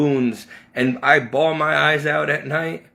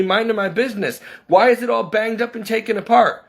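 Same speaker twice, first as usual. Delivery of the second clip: indignant protest; 7 semitones higher than usual. Retold or imitated. Retelling protest to the teacher.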